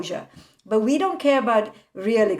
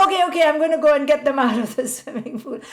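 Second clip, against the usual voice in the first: laughing retelling; 4 semitones higher, 4 dB louder, much faster than usual. Retold or imitated. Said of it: "She was like".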